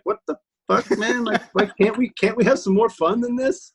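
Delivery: high, whiny complaint; mock exasperated whine; imitating Patton Oswalt. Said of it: "Patton Oswalt was even just like".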